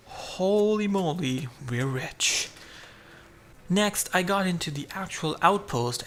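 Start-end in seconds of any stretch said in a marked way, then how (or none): 0.1-2.5 slow, drawn-out "Holy moly" in a put-on voice; mock glee. Real, not acted. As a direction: ham up the jackpot joy. Big loot find, mock glee.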